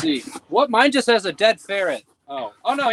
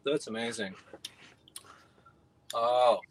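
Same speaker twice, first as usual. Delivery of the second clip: savoring delicious food; 10 semitones lower, 9 dB quieter than usual. Real, not acted. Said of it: "That's like Christmas in an alcoholic bottle".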